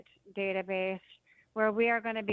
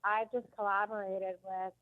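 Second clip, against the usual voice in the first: phone held away. Real, not acted. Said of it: "it's tough to hear you, Tony. Speak closer to the, the phone microphone".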